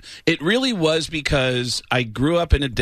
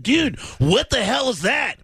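high, slow, shouted rocker voice; rock singer impression; 10 semitones higher than usual. Telling the host about a rock star's house, high shouted rocker impression. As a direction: belt it out like an amazed rock singer. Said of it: "loves that I do these impressions of the guys from a band".

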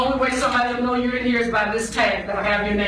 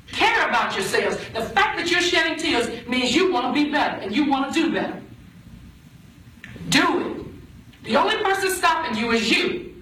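stern, rising courtroom lecture; booming motivational speech; 3 semitones higher than usual. Real, not acted. Judge lecturing young women in court.

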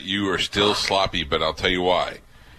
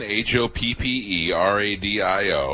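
letters spelled out slowly; one letter at a time, slowly; slow spelling; slower than usual. Shown as a demonstration. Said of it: "spelling the email".

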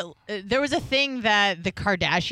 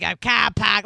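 put-on Boston accent; 3 dB louder than usual. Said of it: "someone who grew up in Boston".

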